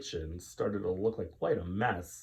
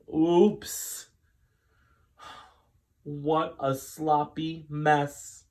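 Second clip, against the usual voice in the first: put-on high childlike oops, slow; little girl's dismay; 6 semitones higher, 4 dB louder, much slower than usual. Rachel at the spurting oil, small and dismayed. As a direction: sing it out like a caught kid.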